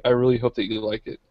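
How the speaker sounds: flat, even robot voice; like a monotone robot. Real, not acted. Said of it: "I sounded just like a robot just now".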